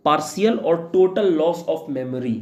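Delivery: each word spaced out slowly for students to write; a teacher reading a definition aloud to be copied down, slowly; slow dictation. Shown as a demonstration.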